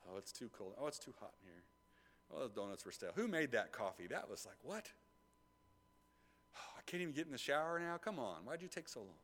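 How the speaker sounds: whiny grumbling, mostly soft; mock complaining. Preacher mimicking congregation complaints, soft and whiny. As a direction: mimic a grumpy churchgoer. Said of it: "Anybody ever complained this morning?".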